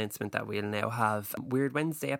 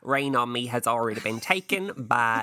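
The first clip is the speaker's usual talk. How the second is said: pageant host; 5 dB louder than usual. Retold or imitated. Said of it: "I just thought".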